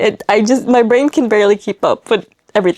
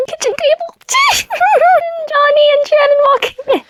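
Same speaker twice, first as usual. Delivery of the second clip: excited squeal. Real, not acted. Squealing at the kitchen scene.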